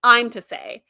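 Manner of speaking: bold, loud, sure answer; confident declaration. Retold or imitated. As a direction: plant your feet and claim it. Guinan voiced with confidence.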